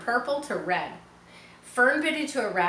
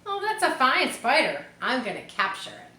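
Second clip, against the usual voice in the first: excited; 5 semitones higher than usual. Acted. Boy excited about spider.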